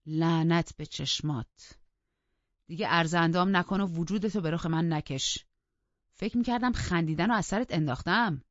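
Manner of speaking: put-on furious master scolding the girl; angry rebuke. Heathcliff rages at Catherine.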